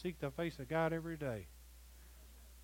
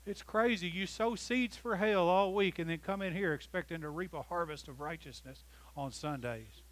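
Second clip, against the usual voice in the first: raised-pitch exasperated preaching; indignant rebuke; 2 semitones higher, 3 dB louder than usual. Real, not acted. Preacher to those who sow seeds for hell all week, indignant. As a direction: rebuke them in one driving rush.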